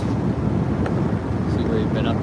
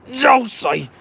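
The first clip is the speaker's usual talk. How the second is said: a half-hearted cheer of Juicy, higher but not shouted; weak juicy cheer; 8 semitones higher, 4 dB louder than usual. Shown as a demonstration. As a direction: toss off Juicy as a first, small try. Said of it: "That's not a good enough juicy".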